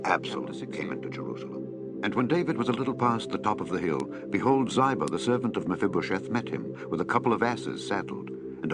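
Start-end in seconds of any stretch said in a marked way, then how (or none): none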